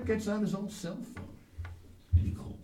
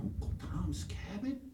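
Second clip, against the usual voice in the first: soft questioning echo; hushed parent querying a tearful child; puzzled parent; 6 dB quieter than usual. Acted. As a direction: repeat it back as a baffled question. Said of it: "What book is that?".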